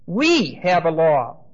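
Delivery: "We" leaned on and slow; "We" said slowly and firmly before "have a law"; stress on WE. Shown as a demonstration. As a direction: punch the word "We". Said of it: "Every one of those pronouns ... are very emphatic".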